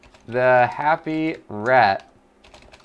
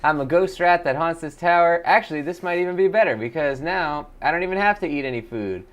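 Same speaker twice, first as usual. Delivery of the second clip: Jimmy the Happy Ghost Rat. Acted. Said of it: "That's Jimmy the Ghost Rat".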